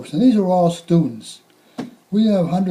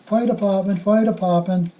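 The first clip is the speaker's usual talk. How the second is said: calling out; 4 semitones higher than usual. Retold or imitated. Firefighter calling out at apartment doors. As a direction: announce yourselves at a door. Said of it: "We were calling".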